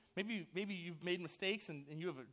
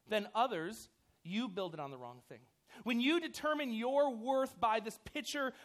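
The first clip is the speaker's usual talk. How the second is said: pressing it home, louder and slower on worth; heartfelt louder plea to the junior highers; earnest, louder appeal; 3 dB louder than usual. Real, not acted. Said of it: "this is gonna be painful".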